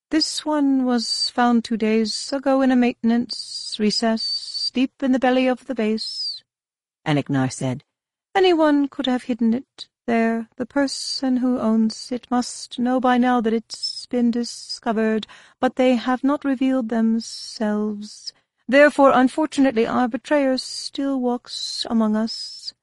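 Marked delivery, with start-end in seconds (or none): 0.1-6.4 higher, slow hissing reptile; sibilant reptilian voice. Acted. 8.4-22.7 higher, slow hissing reptile; sibilant reptilian voice. Acted.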